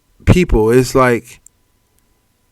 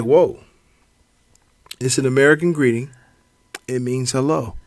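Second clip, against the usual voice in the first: calm explaining; 2 semitones lower, 7 dB quieter than usual. Retold or imitated. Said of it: "just like this".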